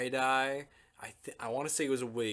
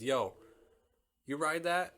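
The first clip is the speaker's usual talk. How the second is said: put-on higher, louder eager teen voice; young dude; 7 semitones higher, 6 dB louder than usual. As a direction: play the excited kid on the street. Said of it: "He says".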